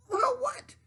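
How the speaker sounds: very high, loud playing-dumb reply; innocent witch. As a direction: feign innocence sweetly. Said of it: "replied the small creature".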